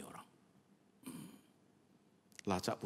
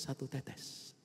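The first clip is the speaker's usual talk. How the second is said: satu tetes whispered, voiceless and softer; 6 semitones higher, 5 dB quieter, much slower than usual. Shown as a demonstration. Preacher whispering satu tetes about the poison drops. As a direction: breathe the words satu tetes like a secret.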